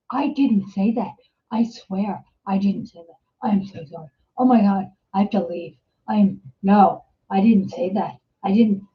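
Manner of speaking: subdued, sinking mock apology; imitating horrified neighbor. Horrified neighbor excusing himself to the teller, mock mortified. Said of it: "The poor guy was so horrified".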